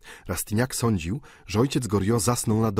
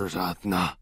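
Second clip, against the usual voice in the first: bitter echo. Acted. Old father echoes the word to Rastignac, resigned. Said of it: "powtórzył starzec".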